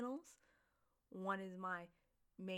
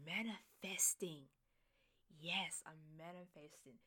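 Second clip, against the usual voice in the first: manifesting whisper. Shown as a demonstration. Host whispering her manifesting to listeners. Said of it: "repeats manifesting as a whisper".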